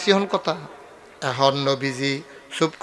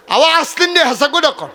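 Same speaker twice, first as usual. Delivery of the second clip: high, louder teasing put-on voice; mock villager voice; 11 semitones higher, 6 dB louder than usual. Preacher mimicking a villager teasing him, in a high mock voice. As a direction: lightly act the teasing neighbour.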